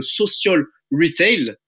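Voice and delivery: "social retail" in an English accent. Shown as a demonstration. Presenter naming the business model to webinar viewers, playful English accent. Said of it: "avec mon magnifique accent anglais".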